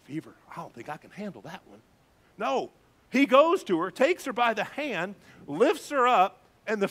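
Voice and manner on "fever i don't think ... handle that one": mock reluctance. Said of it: "Does he say".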